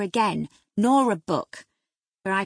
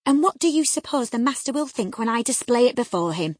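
loud, stern scolding; grave severity; 3 semitones higher, 7 dB louder than usual. A narrator's reading. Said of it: "With a grave severity in my manner".

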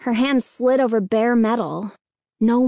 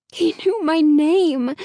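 high, slow, spooked disclosure; breathless; 5 semitones higher, 3 dB louder, slower than usual. A narrator's reading. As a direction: say it breathlessly, pitch raised. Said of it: "Hannah said breathlessly".

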